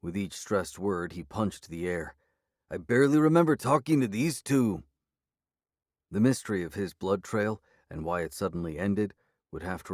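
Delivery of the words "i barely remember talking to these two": higher, louder exasperated cry; frustrated outburst. A narrator's reading. Werewolf venting helpless rage at the sheriff, loud.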